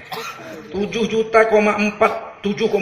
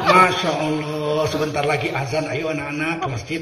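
gentle kiai coaxing; 4 semitones lower than usual. Retold or imitated. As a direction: coax the boys to prayer kindly. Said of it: "Ini kiai".

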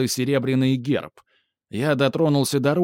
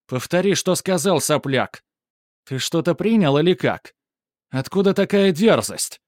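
higher, louder enraged shout; angry shout; 5 semitones higher, 3 dB louder than usual. A narrator's reading. Bully grabbing the narrator's shirt, shouting furiously. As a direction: yell it while grabbing his shirt. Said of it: "выкрикнул он".

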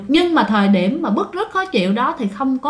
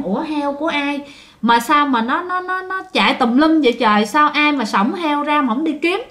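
mildly baffled, higher-pitched retold wondering; puzzled exclamation; 4 semitones higher than usual. Grandfather finding stray piglets on the road, mildly puzzled. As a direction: wonder aloud in a raised pitch, lightly acted.

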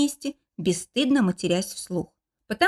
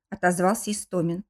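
ordinary talk

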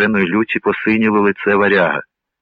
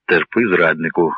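usual speaking voice

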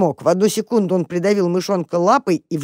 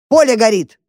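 loud, higher alarmed bark; 5 semitones higher, 5 dB louder than usual. A narrator's reading. Dog Polkan barking a fire warning at the mouse. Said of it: "рявкнул полкан".

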